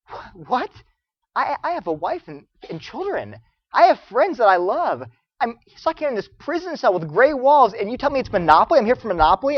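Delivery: bewildered, indignant newcomer; acted disbelief. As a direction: protest as if you cannot believe it. Acts bewildered new prisoner protesting.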